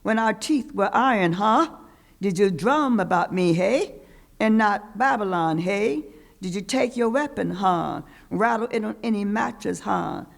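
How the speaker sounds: ancestors' voice. Acted. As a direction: call out like spirits from the past. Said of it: "Ancestors' voice".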